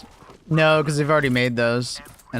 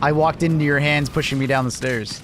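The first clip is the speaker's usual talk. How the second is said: sarcastic. Pretend. Sarcastic reply to teammate.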